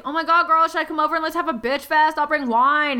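put-on high, loud gushing girlfriend; excited friend. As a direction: gush like an excited best friend. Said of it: "And Desiree's like".

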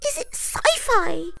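breathy frightened whisper; nervous whisper. A narrator's reading. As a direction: whisper the question.

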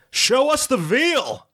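drawn-out high rowdy yell. Acted. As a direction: bellow it like a greedy drunk. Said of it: "impatient man yells out".

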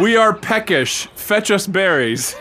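high, pompous royal command; haughty royal voice. Pretend. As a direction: play a spoiled monarch.

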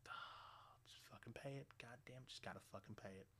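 resigned mutter. Retold or imitated. Resigned to paying the bill, a quiet grumble. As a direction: give up under your breath. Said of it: "I'm like".

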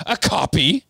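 screeched. Acted. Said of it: "screeched Bellatrix".

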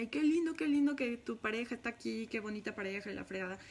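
lightly mock the fawning compliments, then let it trail off; a hint of cooing people she resents; mock gushing. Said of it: "la gente me decía".

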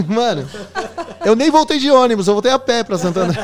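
laughing. Real, not acted. Retelling fleeing, laughing.

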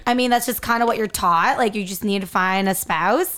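talking around ice in mouth. Real, not acted. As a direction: talk with ice in your mouth. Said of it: "I have ice in my mouth".

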